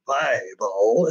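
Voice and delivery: a hint of a sly alien villainess; falsely meek villainess. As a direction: drag it out like a sly, dutiful liar. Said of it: "we can see already that she's lying to him".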